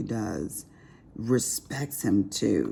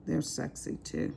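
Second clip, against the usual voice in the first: breathy hushed aside, no voice; whisper; 2 semitones higher, 9 dB quieter than usual. Real, not acted. Confiding to viewers her husband is sexy, whispered. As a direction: let it slip out as a secret whisper.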